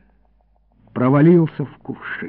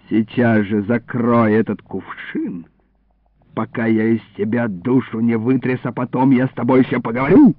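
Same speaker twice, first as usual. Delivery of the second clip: lowered, menacing order; low threat; 5 semitones lower than usual. Acted. Illarion ordering the boy to close the jug, low threat. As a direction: keep the threat low and controlled.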